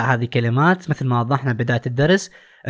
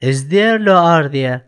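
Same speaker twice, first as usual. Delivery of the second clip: slow choice reading; much slower than usual. Shown as a demonstration. Teacher reads the exam choices.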